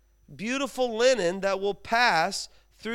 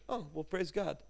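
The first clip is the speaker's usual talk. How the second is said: lightly voiced grandma; 3 semitones lower, 9 dB quieter than usual. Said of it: "She goes".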